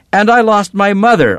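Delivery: high, loud shout of grief. A narrator's reading. Daughter throws her own loss back at Papa, shouting. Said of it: "I shouted".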